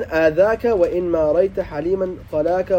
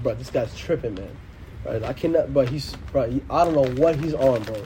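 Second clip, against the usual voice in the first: mock complaint; 6 semitones lower, 5 dB quieter than usual. Complaining to friends.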